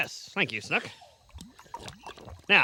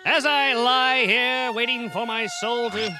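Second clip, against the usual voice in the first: death monologue; slower than usual. Acted. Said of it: "your death monologue".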